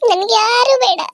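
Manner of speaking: pained, stress on ಯಾರು; ಯಾರು pressed hard, near tears; upset woman rejecting help; tearful refusal. Acted. Refuses everyone, repeated.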